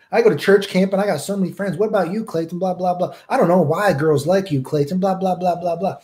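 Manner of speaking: lightly voiced know-it-all; mocking Church Boy. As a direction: parody a bragging kid. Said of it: "always try to tell me".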